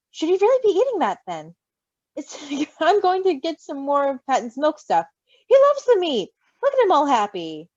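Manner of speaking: put-on high, bright coo to a baby; baby talk. Doting parent cooing baby talk to the baby. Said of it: "slipping into almost baby talk to address the baby".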